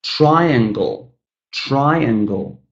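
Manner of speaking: "triangle" with a long, strong TRI; teacher modelling "triangle", first syllable strongest; stress on first syllable. Shown as a demonstration. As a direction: lean on the TRI of "triangle", then fall. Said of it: "but the first syllable is stressed".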